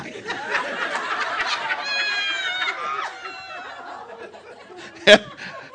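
long high-pitched laugh. Real, not acted. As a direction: laugh out at his own story. Laughing at own story.

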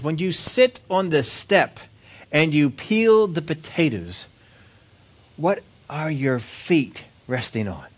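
slow, measured questioning; lightly acted professor, spacing out the question; probing professor. Professor narrowing down questions to the potato peeler, deliberate.

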